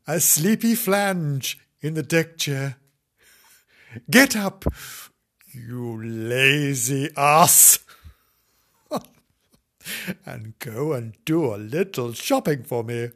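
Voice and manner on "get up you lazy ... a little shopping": scolding wife. Acted. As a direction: nag him out of the chair. Wife scolding sleepy husband.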